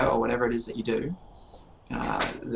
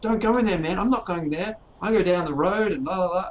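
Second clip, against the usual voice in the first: high, loud panicked rant; imitating a frantic player pleading with his group; raving in character; 8 semitones higher, 4 dB louder than usual. New player warning his group about zombies, frantic high raving. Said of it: "he was just raving on about this".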